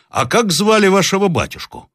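high-pitched, eager question; extraordinary liveliness. A narrator's reading. Sergeant eagerly checking the officer's parentage, lively. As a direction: ask keenly, hoping to confirm who he is. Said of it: "с необычайной живостью сержант".

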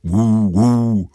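dull, drawn-out wordless wail; imitated mournful hooting; dim, pitiful "goo-goo" noise; plaintive muffled hoot. A narrator's reading. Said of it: "жалобно и тускло ответил голос Шарикова".

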